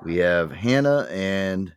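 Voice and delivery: slow, drawn-out host roll call; game show host. Pretend. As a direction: introduce each contestant grandly. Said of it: "Now I can really get into my game show host voice".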